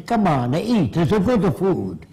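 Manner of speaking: a mock Italian speaker, voice lifted; imitated Italian accent. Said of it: "if you're brought up in Italy".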